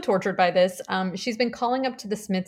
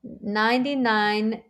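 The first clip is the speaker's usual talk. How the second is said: reciting German lyrics; slower than usual. Shown as a demonstration. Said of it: "I learned the German version of a song".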